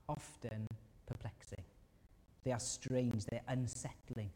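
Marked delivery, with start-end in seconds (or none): 0.1-1.6 hushed. Real, not acted. Preacher drops to near whisper.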